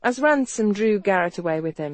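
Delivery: ordinary delivery, nothing marked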